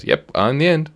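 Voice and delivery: high, cheeky voice for the track end; lightly voiced talking rail; voicing the track. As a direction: give the track a chirpy little voice. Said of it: "where it just goes".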